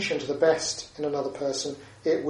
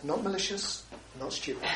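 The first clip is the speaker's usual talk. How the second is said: quiet mantra; 4 semitones higher, 8 dB quieter than usual. Shown as a demonstration. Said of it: "I say to myself".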